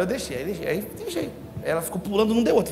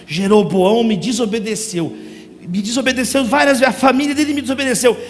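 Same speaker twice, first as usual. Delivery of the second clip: heavy divine pronouncement. Retold or imitated. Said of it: "o texto é pesado".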